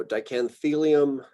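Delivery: dicanthelium with the beat on the third-to-last syllable; stress on third-to-last syllable. Shown as a demonstration. Lecturer showing students genus names, antepenultimate stress on dicanthelium. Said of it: "pronounce that as the emphasized syllable".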